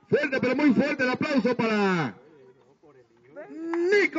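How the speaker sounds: high, slow stretched-out announcer call; silly clown announcer. Acted. Clown announcing applause, drawn out.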